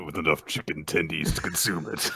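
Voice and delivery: ominous villain reading out the terms; restrained creepy game-master voice; put-on horror announcer; Jigsaw. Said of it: "would you have the more appropriate, uh, Jigsaw voice".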